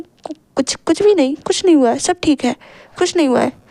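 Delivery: stuttering denial, a touch of panic; husband hiding fear from his wife, stammering; nervous stammer. Acted. Pati ghabrahat mein hakla raha hai, halka sa. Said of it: "बहुत ही ज़्यादा घबराने लगे थे".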